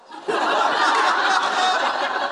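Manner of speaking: breathy burst of laughter at the joke; high laugh. Real, not acted. Preacher cracking up over Martin's television story, real laugh.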